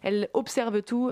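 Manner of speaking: French with a stray German accent; weird German accent. Real, not acted. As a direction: slips into an odd German accent. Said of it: "je dis ça avec un accent allemand bizarre".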